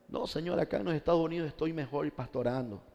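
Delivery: softly voiced, lightly acted excuse; meek excuse. Absent pastor answers the Lord from the States, meek and soft. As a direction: make a small, quiet excuse to your master.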